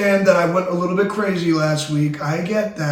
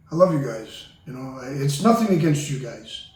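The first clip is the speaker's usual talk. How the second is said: sincere apology; 5 semitones lower than usual. Real, not acted. Host apologizes to his crew.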